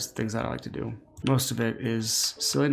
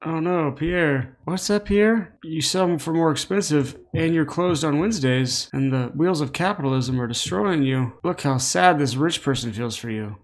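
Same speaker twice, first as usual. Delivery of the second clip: mock pity; 3 semitones higher than usual. Mocking rich villain.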